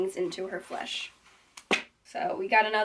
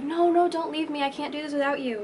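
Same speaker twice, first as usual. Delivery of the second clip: mock pleading; 6 semitones higher than usual. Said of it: "And she's like".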